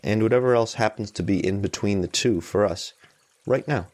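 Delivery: calm, even meditation guide with long pauses; unhurried guidance, leaving room between phrases; guided meditation. Real, not acted. Meditation teacher easing listeners into noticing tension and support, calm guided meditation.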